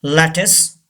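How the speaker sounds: lattice as "LAT-iss", ending in a short i; lattice, stressed first, closing on "iss"; second T silent. Shown as a demonstration. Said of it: "U gives the sound of E".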